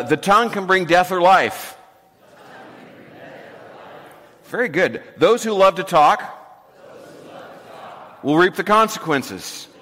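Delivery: proverb said in short chunks for the room to echo; recital in segments. Shown as a demonstration. Pastor leads the congregation in repeating the verse, in short chunks. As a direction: lead the call-and-repeat line by line. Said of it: "I'll say it in short segments".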